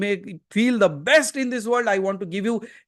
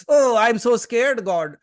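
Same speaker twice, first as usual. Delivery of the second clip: slow, hammed-up frightened whine; mock scared; 2 semitones higher, 5 dB louder, slower than usual. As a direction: play up the fear slowly. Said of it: "Sometimes they say".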